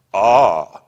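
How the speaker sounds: loud, slow, bitter shout; shouting in miserable triumph. A narrator's reading. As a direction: shout it out, gloating in his misery. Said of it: "he shouted with miserable triumph".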